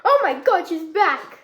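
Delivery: surprised. Pretend. Magic trick reveal.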